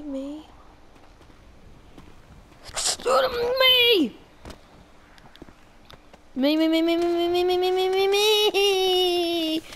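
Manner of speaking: panicked rising yells; frantic yelling. Real, not acted. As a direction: yell in desperation. Panicked climbing, desperate yelling.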